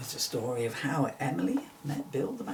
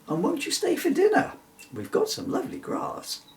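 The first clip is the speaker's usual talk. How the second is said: eager mother. Acted. Mother unicorn's eager invitation.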